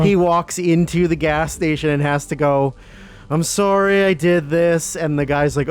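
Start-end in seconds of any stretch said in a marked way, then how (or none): 3.3-5.0 slow, higher-pitched apology; mock sheepish apology. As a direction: imitate someone reluctantly owning up, slowly. Retelling an embarrassed forced apology.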